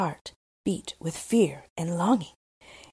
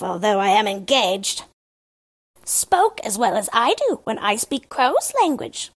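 higher, louder, eager crow's telling; the Crow boasting of the grand court; storyteller's Crow; 3 semitones higher, 5 dB louder than usual. Acted. Crow describing the palace to Gerda, in a higher, louder voice. Crow continues his tale.

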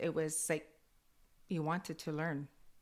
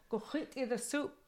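higher put-on voice of granny; bossing like granny; a hint of a bossy granny; granny's order; 7 semitones higher than usual. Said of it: "my granny would go".

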